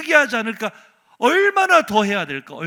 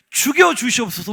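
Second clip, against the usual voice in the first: protest plea; 2 semitones higher, 5 dB louder than usual. Retold or imitated. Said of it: "엘리야의 파업 현장".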